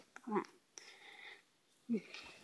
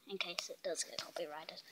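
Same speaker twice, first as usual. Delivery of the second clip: hushed whisper aside; 6 semitones lower, 18 dB quieter than usual. Real, not acted. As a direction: whisper it so nobody hears. Worried about music copyright.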